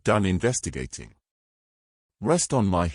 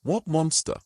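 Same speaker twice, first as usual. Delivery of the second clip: sharply raised, incredulous question; surprised; 8 semitones higher than usual. Acted. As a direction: jump up high in disbelief. Startled reply to monster claim.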